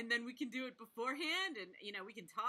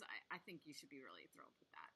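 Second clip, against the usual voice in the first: a soft, sincere whisper; 7 semitones lower, 14 dB quieter than usual. Real, not acted. Host quietly telling the author to be proud of her cover. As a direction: say it softly, meaning every word.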